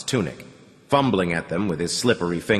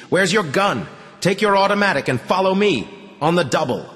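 barked order; 10 semitones higher than usual. A narrator's reading. Commander rousing Artyom with an urgent command. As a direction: rouse him with a sharp order.

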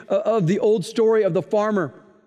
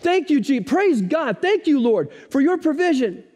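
put-on excited old lady praising; 5 semitones higher than usual. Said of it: "so excited, throws her hands".

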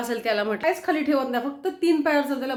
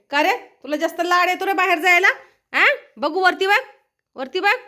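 higher, louder teasing questions; playful pet-talk; 6 semitones higher, 6 dB louder than usual. Real, not acted. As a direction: quiz the pet, lifting the endings. (लाडिक, चढ्या आवाजात दटावणे)

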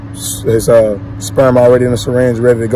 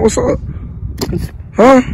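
dog talk; 12 semitones higher, 3 dB quieter than usual. Real, not acted. Greeting the growling dog.

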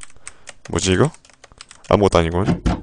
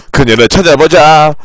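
1 laughing re-read; 5 semitones higher, 4 dB louder than usual. Acted.

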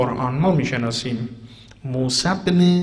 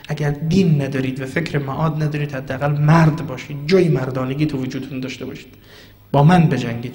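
retold challenge; 4 dB louder than usual. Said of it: "برگشت فریاد زد".

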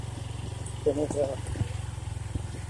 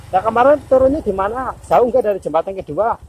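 calling out; 5 semitones higher, 5 dB louder than usual. Real, not acted. Calling out to a companion.

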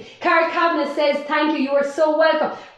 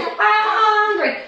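mock whine; 4 semitones higher, much slower than usual. Mimicking kids asking for food.

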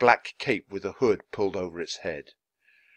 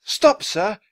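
high, raised-voice hail; calling out; 11 semitones higher, 5 dB louder than usual. A narrator's reading. Charles to the cab driver, shouting. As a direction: shout a polite request to a passing driver. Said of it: "Charles shouted to the driver".

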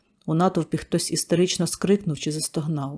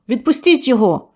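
higher, loud woman's shout; woman's cry; 7 semitones higher, 8 dB louder than usual. Acted. Woman in the crowd shouting to release the boy. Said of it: "Жінка в натовпі крикнула".

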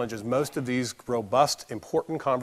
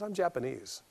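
much softer, composed and unhurried; soft calm reply; 3 semitones higher, 10 dB quieter than usual. Retold or imitated. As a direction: keep it soft and in control. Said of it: "the softer she talks".

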